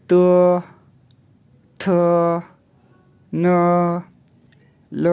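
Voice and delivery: त थ न ल read one by one; त loud and crisp, then थ न ल; pinyin column. Shown as a demonstration. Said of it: "तो यूँ प्रोनाउंस होगा".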